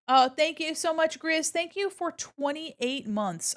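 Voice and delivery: high bright gushing thanks; cute streamer gratitude; excited thanks. Real, not acted. Thanking a subscriber.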